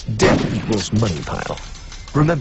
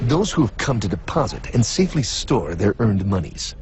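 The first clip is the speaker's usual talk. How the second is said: dramatic presenter narration. Acted. Narrator figure presents exhibits.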